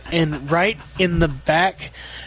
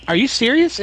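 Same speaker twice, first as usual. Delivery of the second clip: higher, incredulous are you serious; astonished question; 8 semitones higher than usual. Retold or imitated. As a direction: retell the shock at the news. Plumber's astonished reply.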